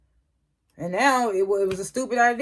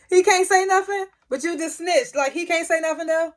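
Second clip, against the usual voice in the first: much higher, amused disbelief; laughing disbelief at his nerve; incredulous; 10 semitones higher than usual. Real, not acted. Vlogger mocking Braden for snitching, high and incredulous.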